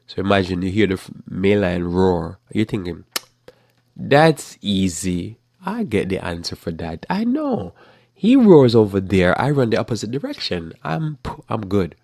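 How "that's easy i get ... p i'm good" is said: smug simpleton. Pretend. Preacher mocking a careless believer, lightly voiced smug fool. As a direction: toss it off like a know-it-all who's sure he's safe.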